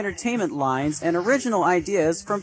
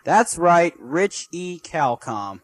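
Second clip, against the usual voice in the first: shout; 4 semitones higher, slower than usual. Real, not acted. Announcing himself.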